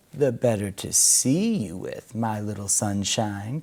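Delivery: crackling wolf voice; crackly. Acted. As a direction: crackle it with menace. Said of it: "crackled the wolf".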